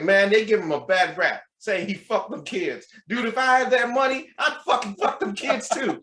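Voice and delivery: high-pitched, brazen Southern stranger; Southern accent. Retold or imitated. Stranger mid-gym within everyone's earshot, Southern accent. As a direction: blurt it out in an imitated Southern accent. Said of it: "with Southern accent".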